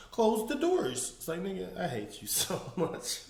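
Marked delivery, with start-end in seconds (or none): 0.1-1.1 slow drawn-out order; mock preacher drawl. Mocking how the pastor ordered the ushers, slow and drawn. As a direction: stretch it out like the pastor. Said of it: "The way he said".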